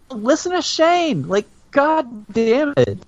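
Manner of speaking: high, slow Southern drawl on listen to Shane; mock Southern accent. Fan imitating Shane's Southern way of talking, in a slow mock Southern accent. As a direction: lay on a Southern accent, slowly. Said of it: "actually sounds like a real Southern accent".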